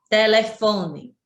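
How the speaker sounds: telefone slowed right down, fo stressed; slow, careful telefone with weight on fo; stress on penultimate syllable. Shown as a demonstration. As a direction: draw out telefone to show the strong fo. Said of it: "fó é a tônica".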